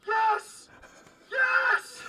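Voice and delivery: high excited shout. Acted. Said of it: "he's like".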